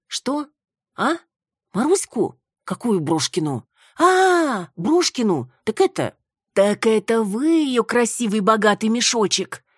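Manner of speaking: loud, tipsy, high excitement; drunken excitement. A narrator's reading. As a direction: babble like a drunk woman waking. Drunk woman wakes, rambles.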